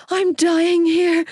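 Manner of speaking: high, slow, pained complaint. A narrator's reading. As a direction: drag it out through the pain. Labour pain peaks.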